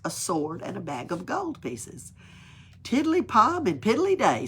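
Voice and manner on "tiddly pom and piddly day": contented. Acted. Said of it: "said Pippi contentedly".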